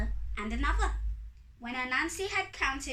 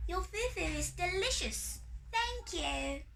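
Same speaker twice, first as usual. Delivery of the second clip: delighted fairy; 7 semitones higher than usual. A narrator's reading. Fairy praises the food.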